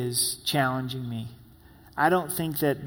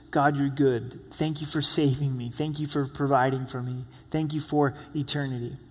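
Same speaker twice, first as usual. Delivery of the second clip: soft prayer of thanks; 3 dB quieter than usual. Shown as a demonstration.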